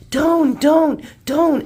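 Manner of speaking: put-on high, loud little kid chanting; toddler voice. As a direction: chirp it like a toddler. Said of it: "And he's like".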